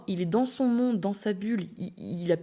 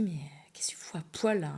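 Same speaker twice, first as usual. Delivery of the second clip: curt retort; 2 semitones lower, 4 dB quieter than usual. Retold or imitated. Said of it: "il me parle comme ça".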